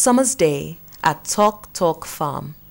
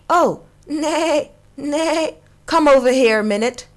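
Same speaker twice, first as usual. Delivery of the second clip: higher voice, quickening at the end; croaking frog; 7 semitones higher than usual. Acted. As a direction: croak it out, hurrying the horse over. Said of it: "croaked Ribbit".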